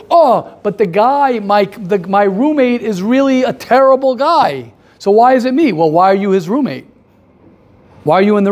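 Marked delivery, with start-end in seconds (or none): 0.1-5.7 mock complaining. Student blaming his terrible roommate, mock complaining. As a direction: plead the case as an aggrieved objector.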